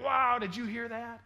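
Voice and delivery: loud, high, drawn-out wow of a cheering crowd; cheering onlooker. Acted. Crowd member reacting to a big temple offering, cheering in amazement. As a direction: act out an impressed spectator, big and loud. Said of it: "and sometimes cheers".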